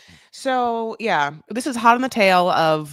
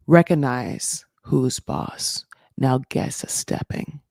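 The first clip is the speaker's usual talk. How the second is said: Jasmine; slower than usual. Acted. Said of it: "this is really Jasmine being like".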